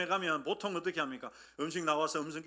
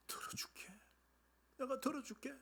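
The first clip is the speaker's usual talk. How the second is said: very soft, whispery reassurance; hushed promise; 6 semitones higher, 12 dB quieter than usual. Acted. God assuring the believer of hearing prayer, hushed. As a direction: breathe the promise out gently. God's promise voiced in a hush.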